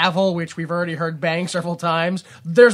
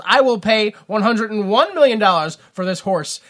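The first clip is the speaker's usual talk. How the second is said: obnoxious rich lover; 4 semitones higher, 5 dB louder than usual. Retold or imitated. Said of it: "his equally obnoxious lover comes in".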